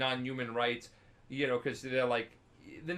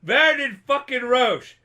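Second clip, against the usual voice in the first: mock furious insult; 8 semitones higher, 9 dB louder than usual. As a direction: spit the insult across at a rival. Yorveth insults Roche.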